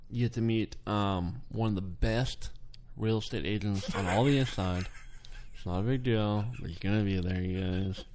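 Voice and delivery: hushed secret whisper into the mic. Pretend. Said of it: "why are you whispering into the mic?".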